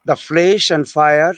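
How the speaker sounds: slow, measured poetry reading with pauses; poem recitation. Acted. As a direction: recite it line by line, unhurried.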